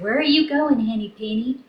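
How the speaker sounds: a light, lifted goose voice; goose's question. Acted. Goosey Lucy greeting Henny Penny, lightly voiced curious goose. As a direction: ask brightly as a curious goose. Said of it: "and she said".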